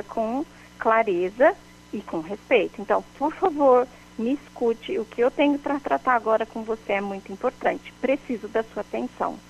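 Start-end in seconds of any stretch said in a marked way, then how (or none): 2.8-9.4 calm respectful request. Shown as a demonstration. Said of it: "Olha a diferença".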